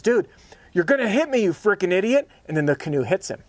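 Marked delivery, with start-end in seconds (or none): 0.0-2.3 high, loud mock shout of alarm; panicked yell. Canoe man yelling just before the crash, high mock panic. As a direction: yell a warning as if about to be hit. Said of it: "he says".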